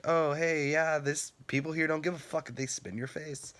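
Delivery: high-pitched, mocking quote voice; mock publicity. Voicing the bad publicity the page avoids, high mocking voice.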